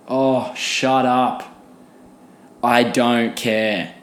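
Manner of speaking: slow, exasperated and done with it; slow dismissive brush-off. Real, not acted. Vlogger brushing off the vegan-meat critics, slow and weary. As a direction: drag out a weary shut up.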